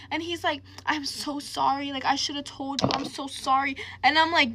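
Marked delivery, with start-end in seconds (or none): 0.9-3.8 imitated tearful apology. Boyfriend's friend apologizing to her, mildly tearful retelling. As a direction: imitate a crying friend, lightly. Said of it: "his best friend starts crying".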